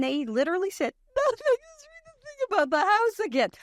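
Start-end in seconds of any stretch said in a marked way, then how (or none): 1.2-3.5 high, squeezed-out imitation of helpless laughter; dying of laughter. Casting team asks for another read, mock helpless laughter. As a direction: mimic someone laughing too hard to speak. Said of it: "like, they were dying".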